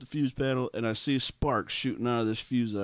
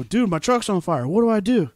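higher, louder mock yell at a friend; retold yell; 7 semitones higher, 6 dB louder than usual. Yelling to best friend Connor for advice, mock yell. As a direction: play the panicked yell to the passenger. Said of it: "I yelled it out loud to Connor".

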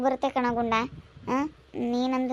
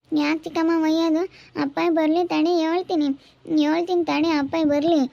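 higher-pitched protest at being scolded; indignant protest; 4 semitones higher, 3 dB louder than usual. Acted. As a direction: threaten to tell on the stepmother. Child threatens to tell father. (ಚಿಕ್ಕಮ್ಮನಿಗೆ ಎದುರಾಡುವ ದೂರಿನ ದನಿ)

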